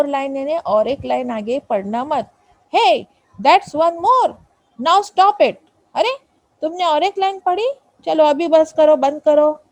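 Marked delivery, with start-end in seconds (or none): 2.7-8.5 louder, higher scolding stop; mock scolding. Poet scolding the reader who keeps reading, loud. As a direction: snap at the reader like an annoyed poet.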